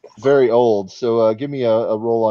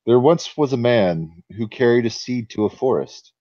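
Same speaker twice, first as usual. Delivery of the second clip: story narration. A narrator's reading. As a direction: read it like an old tale. GM reads the forest legend.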